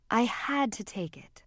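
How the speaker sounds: breathy whispered confession; small, strained whisper. Acted. Mother admitting the sale to her daughter, whispered and strained. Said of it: "her voice was small and strained".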